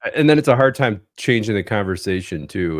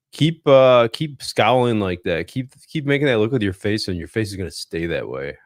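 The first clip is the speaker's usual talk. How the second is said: raised warning parent voice; scolding parent; 3 semitones higher, 5 dB louder than usual. Retold or imitated. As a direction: warn a pouting kid like a parent. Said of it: "the thing that we heard as kids".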